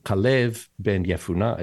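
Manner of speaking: Kalev ben Yefunah said as Hebrew, kah-LEV; careful Hebrew Kalev ben Yefunah; Hebrew pronunciation. Shown as a demonstration. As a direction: stress the second syllable of Kalev in Kalev ben Yefunah. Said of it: "they're vocalized very differently".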